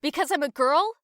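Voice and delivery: loud, indignant challenge; mock offended. Teasing a friend surprised at archery, mock offended. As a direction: pounce on it as if insulted.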